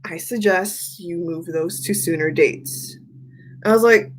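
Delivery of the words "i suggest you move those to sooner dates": lower, softer, slower mock advice; a hint of a knowing friend, hushed; low mock-serious suggestion; imitating Jason. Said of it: "And he's like".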